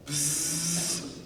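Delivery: bee buzz. Shown as a demonstration. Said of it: "sounding like a wounded bumblebee".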